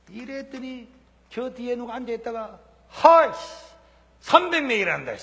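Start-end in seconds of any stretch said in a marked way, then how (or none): 2.9-5.1 scoffing mutter. Retold or imitated. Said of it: "이렇게 누가 이야기를 하더라고".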